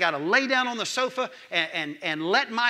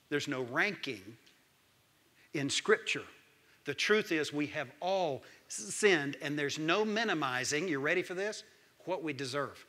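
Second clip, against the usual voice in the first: sober hush; 4 semitones lower, 5 dB quieter than usual. Acted. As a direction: bring it down, grave. Sober turn after climax.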